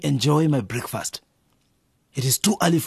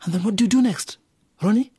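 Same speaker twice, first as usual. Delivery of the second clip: teasing; 11 semitones higher than usual. Acted. Father teasing his son.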